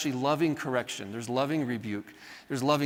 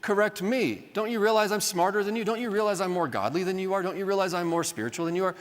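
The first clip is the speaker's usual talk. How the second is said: indignant offense; 4 semitones higher than usual. Retold or imitated. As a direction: play the proud know-it-all who takes offense. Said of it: "this offense of like".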